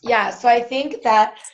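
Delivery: slow, drawn out through a yawn. Real, not acted. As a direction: talk while stifling a yawn. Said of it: "I don't know why I'm yawning".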